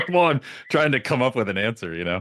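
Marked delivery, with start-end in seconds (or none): 0.1-1.3 flat mechanical robot voice. Retold or imitated. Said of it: "I start talking in a robot voice". 1.4-1.9 robot voice. Retold or imitated. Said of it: "I start talking in a robot voice".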